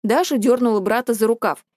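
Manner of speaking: usual speaking voice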